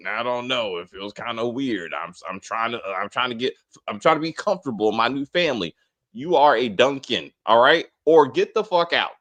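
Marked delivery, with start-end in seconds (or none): 0.1-5.8 lower, softer whiny mock voice; a light mock of Roman whining. Host mocking Roman's excuses, softly whiny. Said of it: "he's still pulling this bullshit".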